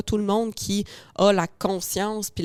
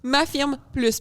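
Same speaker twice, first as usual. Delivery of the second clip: laughing; 6 semitones higher, 5 dB louder than usual. Real, not acted. Laughs about being ganged up.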